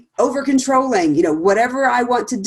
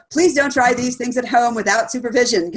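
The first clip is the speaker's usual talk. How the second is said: laughing quote; 3 semitones higher than usual. Retold or imitated. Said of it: "would say".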